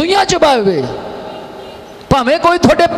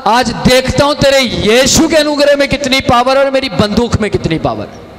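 gunman's threat. Retold or imitated. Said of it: "गर्दन पर रखकर बोला".

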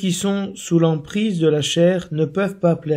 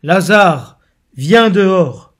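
loud, higher call across the tomb; 3 semitones higher, 8 dB louder, much slower than usual. A narrator's reading. Jesus calling Lazarus out of the tomb, loud and raised. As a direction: call him out with a strong, raised voice. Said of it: "il cria d'une voix forte".

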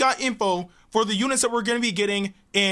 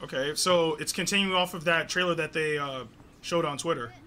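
quiet murmur; 7 semitones lower, 10 dB quieter than usual. Real, not acted. Quiet watching reaction video.

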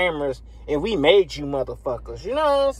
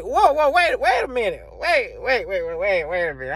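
startled double-take, voice climbing then settling; whoa wait; 2 semitones higher than usual. Retold or imitated. Gamer reacting to EA's claim with disbelief. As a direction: stop everything, you can't believe it. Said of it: "I'm like".

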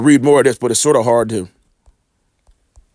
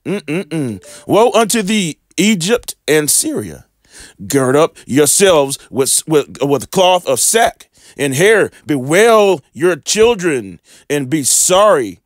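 slow, mournful scripture reading; slower than usual. Acted. Preacher reading Ezra's woes to viewers, slow and mournful. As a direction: read the woes slowly and heavily. Reads Second Ezra woes.

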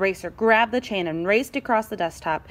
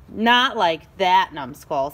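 scornful scolding; 3 semitones lower, 4 dB louder, slower than usual. Acted. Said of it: "said Scissors".

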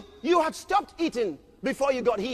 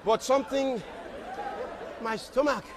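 weak complaint; 3 semitones lower, 6 dB quieter than usual. Acted. Believer complaining weakly.

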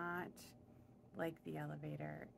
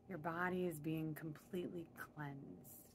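guided meditation. Real, not acted. Guide leading listeners upward in their imagined elevator, calm meditation voice. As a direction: lead them gently inward, phrase by phrase. Leads a cleansing visualization.

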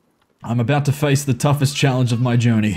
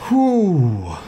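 usual speaking voice

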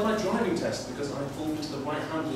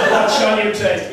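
slow dramatic question; 7 semitones higher, 11 dB louder, slower than usual. Retold or imitated. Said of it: "and you say".

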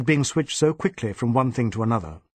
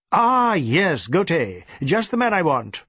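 brisk boss; 5 semitones higher, 3 dB louder, slower than usual. Acted. DSP voiced.

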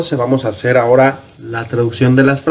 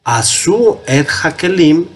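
slow careful read; 3 semitones higher, slower than usual. Shown as a demonstration.

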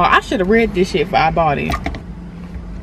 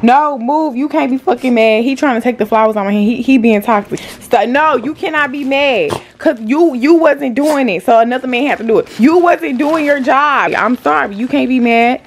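scolding; 4 semitones higher than usual. Real, not acted. Scolding boyfriend over flowers.

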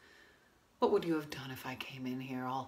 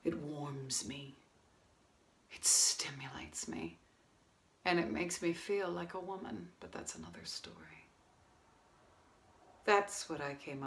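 quiet bitterness; 2 semitones lower, 8 dB quieter than usual. Acted. Woman confronts restaurant owner after failed affair, quietly bitter. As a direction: confront him softly, with long pauses.

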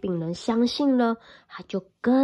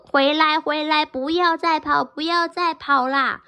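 higher, louder call; chasing grandparents calling; 5 semitones higher, 3 dB louder than usual. Acted. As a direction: shout after the runaway. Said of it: "就说".

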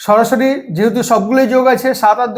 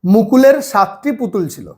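slow, careful read-aloud; the teacher slowly reads out the word problem; slower than usual. Shown as a demonstration. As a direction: read it slowly so a small child can follow. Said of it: "আমি একটু আস্তে আস্তে বলছি".

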